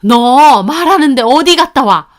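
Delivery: high, loud, affronted demand; furious older-relative scolding; angry mother-in-law. A narrator's reading. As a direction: tell off someone who walked out. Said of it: "어머님이 화부터 내시더군요".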